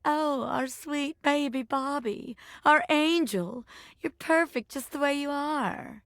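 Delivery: slow, cooing imitation of doting relatives; doting family. Bobby mimics family, slow doting coo. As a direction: drawl it out like a fawning mom. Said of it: "They're gonna say".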